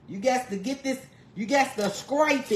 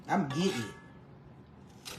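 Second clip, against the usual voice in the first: I'm getting it stretched out slow, low and soft; slow drawl; 10 semitones lower, 10 dB quieter, much slower than usual. Shown as a demonstration. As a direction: drag out every word of I'm getting it. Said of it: "repeats the phrase slowly and low".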